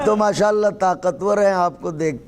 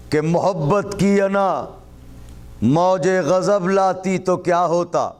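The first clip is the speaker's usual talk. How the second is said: raised, declaimed verse; poetry recitation. Acted. Poet presenting an opening couplet to the audience, raised recitation. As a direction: lift the voice above chat and declaim.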